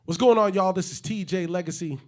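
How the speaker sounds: big, high radio-host greeting; hype intro. Acted. Host opening the podcast, loud and high. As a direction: greet the family like a DJ. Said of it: "hype intro take".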